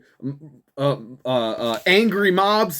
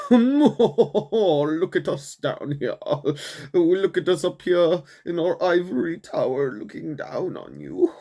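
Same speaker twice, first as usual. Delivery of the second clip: mock snooty elite; 2 semitones higher than usual. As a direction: drag it out like a smug aristocrat. Mocking lawmakers in an ivory tower.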